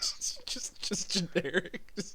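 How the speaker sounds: whisper. Real, not acted. Whispered joke aside.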